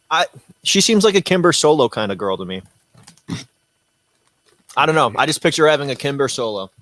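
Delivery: talking while eating chips; chewing between words; mouth full. Real, not acted. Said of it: "Sorry, I'm eating chips on a live stream".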